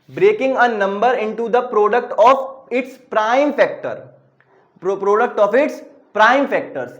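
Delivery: very slow, word by word for note-taking; slow dictation. Shown as a demonstration. Teacher dictating the definition to students, very slowly. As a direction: dictate it so they can write along. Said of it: "definition लिख लोगे खुद".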